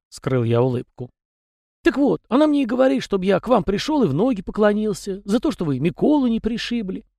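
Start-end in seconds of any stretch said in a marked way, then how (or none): 1.8-7.1 high, folksy little peasant voice; chatty house spirit. A narrator's reading. House spirit Tikhon rambling to the young master, high and folksy. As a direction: prattle on as a talkative domovoi. Tikhon passes on wife's request.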